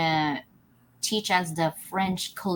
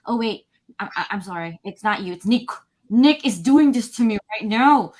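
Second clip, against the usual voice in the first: flustered apology; 3 dB louder than usual. Retold or imitated. Apologising to friend while frustrated.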